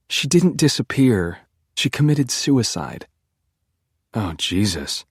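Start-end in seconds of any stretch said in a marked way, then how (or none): 0.1-3.1 higher, slow, pained correction; slowly, distressed; grave correction. A narrator's reading. Beck correcting, upset.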